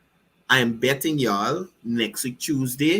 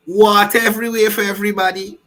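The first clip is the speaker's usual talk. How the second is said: mock announcement; 4 semitones higher, 6 dB louder, faster than usual. Mocking the rally promise.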